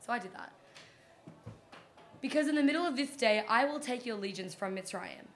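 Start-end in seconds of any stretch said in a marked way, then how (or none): 2.2-5.3 dramatic reading. Pretend. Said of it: "It's my dramatic reading".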